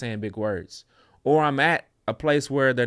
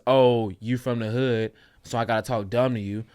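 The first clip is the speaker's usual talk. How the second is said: condescending speaker; 3 semitones lower than usual. Retold or imitated.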